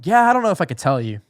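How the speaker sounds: high, loud mock reluctance; teasing. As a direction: mimic a friend dangling a secret. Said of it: "he's, like, really nagging it on".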